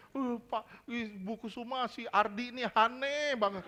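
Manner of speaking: lightly hammed-up gossipy complaint; mock venting. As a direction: imitate someone moaning to a friend about somebody. Acts out venting to a friend.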